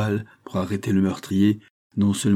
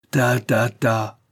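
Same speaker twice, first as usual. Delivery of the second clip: higher, louder brush-off; dismissive cry; 3 semitones higher, 4 dB louder, much slower than usual. A narrator's reading. Marquis brushes off his son's oath, exclaiming dismissively. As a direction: wave away the objection vocally. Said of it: "s'écria le marquis".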